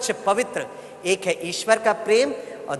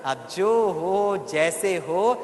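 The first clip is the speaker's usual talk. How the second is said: प्यार भरा आशीर्वाद; 2 semitones lower, slower than usual. Shown as a demonstration. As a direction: stretch each phrase, then settle tenderly. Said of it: "सितारा को देखकर कहना". (धीमे प्यार से, अंत में कोमल)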